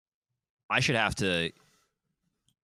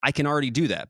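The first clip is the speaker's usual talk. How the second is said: emphatic; 7 semitones higher, 6 dB louder than usual. Real, not acted.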